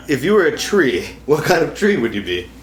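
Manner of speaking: normal talking voice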